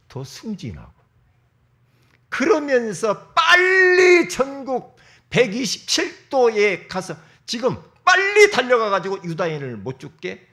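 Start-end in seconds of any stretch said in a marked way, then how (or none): 2.3-10.5 a king shouting an urgent order across the land; urgent command. Acted. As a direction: call it out like a decree.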